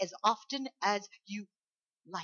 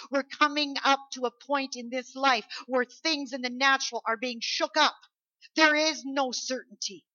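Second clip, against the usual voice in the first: loud, high, emphatic preacher; full-force preaching; 5 semitones higher, 6 dB louder than usual. Real, not acted. Preacher urging congregation to use the gift, forceful. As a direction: drive it home to the congregation.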